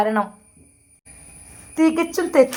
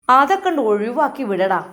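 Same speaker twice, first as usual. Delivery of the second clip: angry shout; 2 semitones higher, 7 dB louder than usual. Acted. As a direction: yell at him to drop her. Mother shouts at weeping son. (ഉമ്മ മകനോട് ദേഷ്യത്തോടെ അലറുന്നു)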